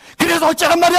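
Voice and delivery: high, loud, angry, rising tone.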